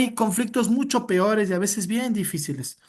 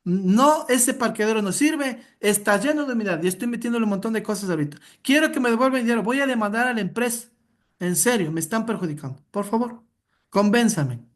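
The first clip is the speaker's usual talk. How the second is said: difficult client. Acted. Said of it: "yo soy un cliente bien conflictivo".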